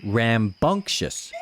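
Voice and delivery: Rambunctious said slowly and clearly, each syllable given its weight; slow clear word. Shown as a demonstration. Parent saying the new word slowly for the child, clearly. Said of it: "What's rambunctious?".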